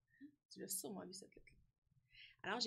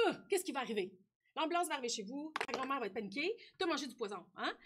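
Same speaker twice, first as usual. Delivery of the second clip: louder, playful gasp of alarm; mock alarm; 6 dB louder, faster than usual. Teacher imagines grandma's panicked reaction, loud mock alarm. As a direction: play up a pretend emergency for a pupil.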